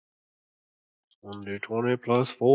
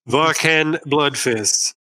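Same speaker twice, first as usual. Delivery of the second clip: ominous pronouncement; much slower than usual. Acted. Game master addresses character ominously.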